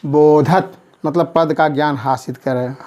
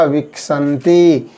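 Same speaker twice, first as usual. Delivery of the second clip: slow answer; 2 semitones lower, much slower than usual. Shown as a demonstration. Teacher answering own question, slow and clear. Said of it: "क्या होगा?".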